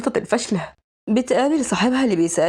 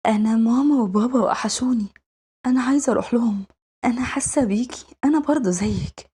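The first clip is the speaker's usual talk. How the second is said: lightly voiced innocent little girl; a hint of a child missing her parents; wistful young girl; 2 semitones higher than usual. Young girl confiding that she misses mum and dad, lightly girlish and wistful.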